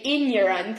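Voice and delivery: ignorant said "in-yorant", without a hard g; mispronounced ignorant. Retold or imitated. Retelling English teacher's warning, "ignorant" said as in-yorant. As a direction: turn the gn of "ignorant" into ny. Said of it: "only ignorant people will say".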